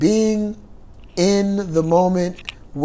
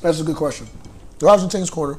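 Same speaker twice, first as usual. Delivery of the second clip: talking while eating pears; words round a bite of fruit; mouth full; much faster than usual. Real, not acted. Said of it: "Okay, you're eating pears".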